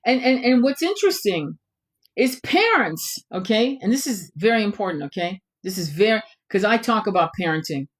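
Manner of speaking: ordinary delivery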